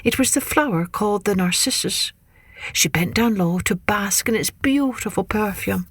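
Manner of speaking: measured, expressive myth telling; story narration. A narrator's reading. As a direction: tell it to children, lingering on key words.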